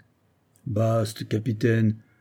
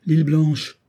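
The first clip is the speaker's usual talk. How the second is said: raised, higher-pitched exclamation; madman's cry; 5 semitones higher, 4 dB louder than usual. A narrator's reading. Asylum inmate recognising the captain, crying out. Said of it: "il s'écria".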